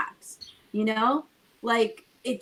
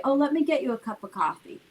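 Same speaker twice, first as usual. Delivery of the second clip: gracious offer; 3 semitones higher, faster than usual. Shown as a demonstration. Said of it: "and you get up and say".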